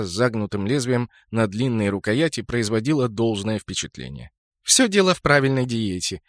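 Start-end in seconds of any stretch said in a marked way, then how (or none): 4.6-6.2 put-on voice. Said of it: "наигранным голосом ответила Джоли".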